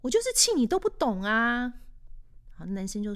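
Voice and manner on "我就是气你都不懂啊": mock girlfriend anger. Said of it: "然后女生就说".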